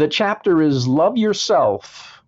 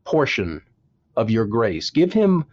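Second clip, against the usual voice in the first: earnest prayer. Retold or imitated.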